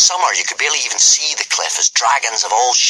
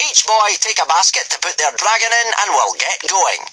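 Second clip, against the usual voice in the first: commanding Gobber; 11 semitones higher than usual. A narrator's reading. Gobber sending the boys up the cliff, commanding. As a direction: order the boys like a drill master.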